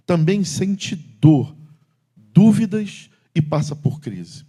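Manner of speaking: slow, loud, emphatic reading; solemn pulpit proclamation; slow preaching. Acted. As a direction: drag out each phrase for weight. Reads psalm slowly, loud.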